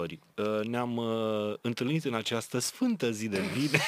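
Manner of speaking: mock solemn radio opening; radio host voice. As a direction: address the listeners like a classic radio show. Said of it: "exact ca o emisiune de radio clasică".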